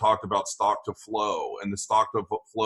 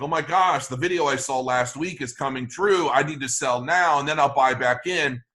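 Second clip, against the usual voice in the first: mock freaking out; 2 semitones higher than usual. Trader mimics scared people ready to sell, mock freaking out. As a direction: imitate spooked investors, a touch of alarm. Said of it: "people start freaking out".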